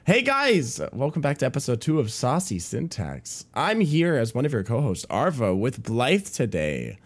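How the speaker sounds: bright fake-friendly service tone; customer service voice. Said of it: "put the customer service voice on".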